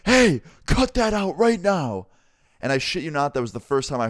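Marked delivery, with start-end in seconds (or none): 0.1-2.1 high, loud, slow stern shout; a stern driver shouting down the bus; bus driver yelling. Retold or imitated. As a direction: bark the order at the kids in back. Bus driver yells at fighting seniors.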